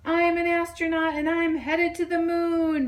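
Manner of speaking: high, bright toy bunny exclaiming; bunny thrilled in the air; excited cry. A narrator's reading. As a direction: cry out with joy mid-flight. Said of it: "Bear cried".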